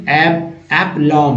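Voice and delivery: aplomb drawn out slowly, ending on m; careful spelling-out. Shown as a demonstration. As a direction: say aplomb syllable by syllable. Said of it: "म लिख दीजिए".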